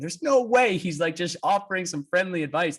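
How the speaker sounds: high-pitched disbelieving thought; incredulous. Retold or imitated. Racer doubts his rival's motives in his head, incredulous.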